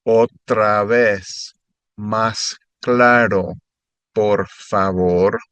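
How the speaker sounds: slow, syllable-by-syllable model reading. Shown as a demonstration. Tutor modeling the phrase slowly for students. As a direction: lay it out slowly for repetition. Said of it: "normal and then a little slower".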